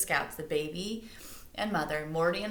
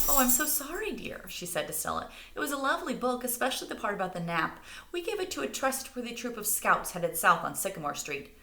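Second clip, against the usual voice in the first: higher, sweet sorry voice; apologetic mother; 6 semitones higher than usual. A narrator's reading. Mother apologizing to Stella, lightly voiced. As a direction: soothe the girl kindly.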